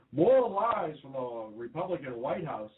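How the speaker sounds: slightly slowed mock newscaster delivery; lightly voiced TV anchor impression; Brian Williams. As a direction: report it like a network news anchor. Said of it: "that was my Brian Williams impression".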